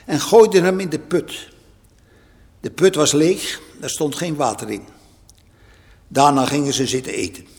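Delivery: scripture reading. Acted.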